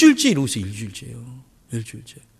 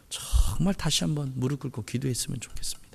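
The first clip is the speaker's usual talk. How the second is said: whisper; 5 semitones lower, 11 dB quieter than usual. Real, not acted. Earnest plea to kneel and pray.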